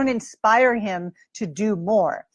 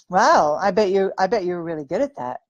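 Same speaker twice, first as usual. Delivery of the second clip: admiring tone; 3 semitones lower than usual. Shown as a demonstration. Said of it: "So that tone will get him excited".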